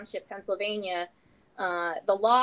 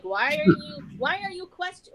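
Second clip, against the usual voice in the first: high-pitched mock protest; raised, exaggerated voice without the accent; imitated indignant organisers; 10 semitones higher, 6 dB louder than usual. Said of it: "well, they would have said it".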